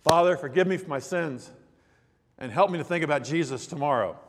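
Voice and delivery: mildly earnest bedtime prayer, retold; sincere prayer. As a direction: recite a child's prayer with a touch of sincerity. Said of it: "with sincerity".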